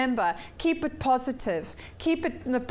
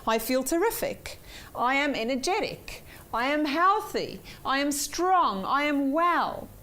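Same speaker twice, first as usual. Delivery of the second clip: upbeat affirmation. Shown as a demonstration. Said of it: "good personal power statement".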